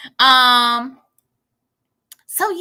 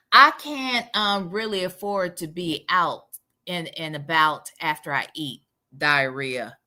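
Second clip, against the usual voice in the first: Sonya; 11 semitones lower than usual. Acted. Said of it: "That's how she talks".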